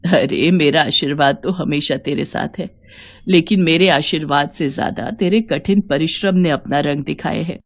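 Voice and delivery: a hint of a loving mother-in-law blessing her; gentle mother-in-law.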